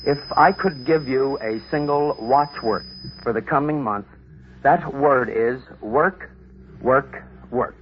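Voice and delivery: work, work, work said slowly, each work stressed; emphasized quote. Retold or imitated. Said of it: "he emphasized this line".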